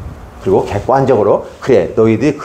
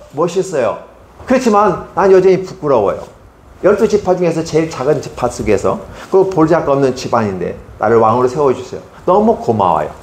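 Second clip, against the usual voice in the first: humble grateful Saul; 4 semitones higher than usual. Acted. Voicing humble Saul thanking God.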